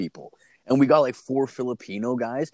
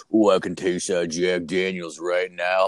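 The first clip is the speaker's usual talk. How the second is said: lightly voiced low, slow drone; low monotone dude; 4 semitones lower than usual. Tattooed coworker craving a drink, mock monotone. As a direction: imitate a monotone coworker, a bit deeper. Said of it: "he's, like, this low monotone dude".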